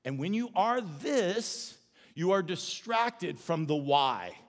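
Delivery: slow, calm, gentle correction; Jesus calmly correcting Martha; gentle rebuke. Retold or imitated. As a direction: lay it out slowly and kindly. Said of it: "he basically just says this".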